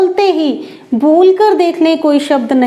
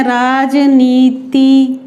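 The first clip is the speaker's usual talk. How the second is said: slow demo; much slower than usual. Shown as a demonstration. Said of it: "यहाँ भी गलती कर देते हैं".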